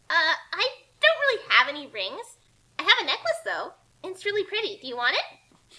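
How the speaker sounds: a light, chirpy put-on girl voice; innocent girl. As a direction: play dumb and sweet to distract him. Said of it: "Kasumi said".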